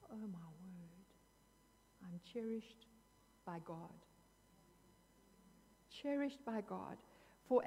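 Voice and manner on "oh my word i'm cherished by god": hushed and softer, full of wonder; awed hush. Retold or imitated. Preacher recalling realizing God cherishes her, hushed awe. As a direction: breathe it out in quiet amazement.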